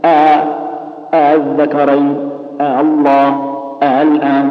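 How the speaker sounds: الذكرين, الله and الآن each entered on an eased second hamza; tas-heel recitation. Shown as a demonstration. Teacher giving students the examples, eased hamza before الآن. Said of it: "بالشكل هذا".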